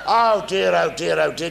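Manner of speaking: exasperated sigh. Retold or imitated. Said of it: "he said".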